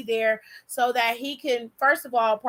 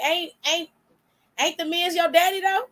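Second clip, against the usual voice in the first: a rapper's sass; 5 semitones higher than usual. Retold or imitated. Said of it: "straight up Nicki Minaj on him".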